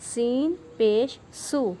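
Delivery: slow سو with a whistled hiss; whistling seen. Shown as a demonstration. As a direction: let the س whistle in سو. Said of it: "سین کو ہم سیٹی کی آواز سے پڑھیں گے". (سیٹی کی آواز والا سو)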